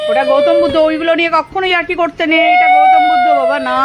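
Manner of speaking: very high and loud scolding; mother scolding son about the statue; stern warning. Real, not acted. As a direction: sharply forbid the joke.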